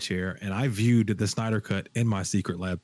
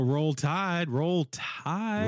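lightly chanted cheer, pitched up, rising at the end; mock fan cheer; 5 semitones higher, much slower than usual. Host reads a viewer's Alabama cheer, playful chant. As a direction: read it out like a fan's rallying call.

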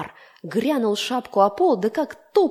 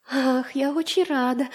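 a light, tinny giggle of delight, a little higher; tiny fly laughing happily; thin laughing voice; 5 semitones higher than usual. Acted. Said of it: "засмеялась таким тоненьким-растоненьким голоском". (тоненьким смеющимся голоском)

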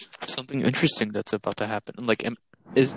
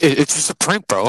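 prank YouTuber voice; 3 semitones higher, 8 dB louder than usual. Pretend. Mock prank-video excuse, loud.

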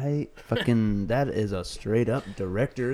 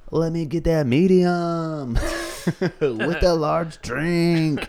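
mock big spender; 5 semitones higher, 3 dB louder, slower than usual. Mock big spender fast-food order.

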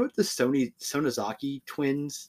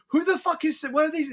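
much higher, incredulous outburst; mock bafflement at the song; baffled. Reacting to the surprise Frieza song, baffled. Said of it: "I'm like".

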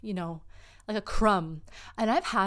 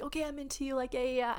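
feigned interest; 6 semitones higher, faster than usual. Acted. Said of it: "people to your face will be like".

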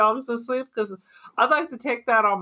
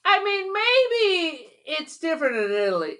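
laughing outburst; 6 semitones higher than usual. Real, not acted. Incredulous comic outburst.

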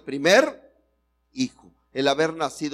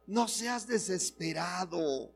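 softly, a little higher, to your neighbour; 3 semitones higher, 8 dB quieter than usual. Shown as a demonstration. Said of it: "dile al que está a tu lado".

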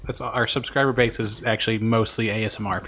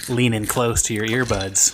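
slow hushed ASMR host; slower than usual. Pretend. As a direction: draw them in, slowly. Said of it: "A S M R".

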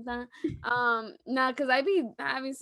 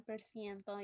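Spanish accent; 3 semitones lower, 14 dB quieter than usual. Shown as a demonstration. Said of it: "You gotta say it with an accent".

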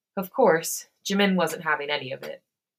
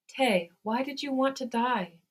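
higher-pitched, gently wounded question; soft, hurt; 6 semitones higher than usual. A narrator's reading. Jin asking sick Tae why he wanted to die, mildly hurt. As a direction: ask it with a touch of hurt. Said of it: "his soft voice full of hurt".

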